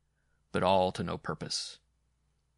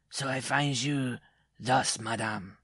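higher, measured character voice; dwarf confronting his wife; 5 semitones higher, slower than usual. A narrator's reading. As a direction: confront her coolly as the dwarf.

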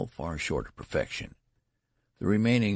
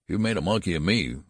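a louder, fierce comeback; fierce retort; 3 semitones higher, 5 dB louder than usual. Acted. Father retorting to his old son, fiercely louder. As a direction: hit back at him with heat. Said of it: "retorted Mister Button fiercely".

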